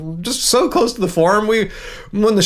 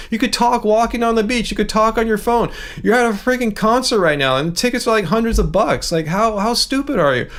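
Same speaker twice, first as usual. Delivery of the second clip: imagined rant; 4 semitones higher than usual. Retold or imitated. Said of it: "And then I go".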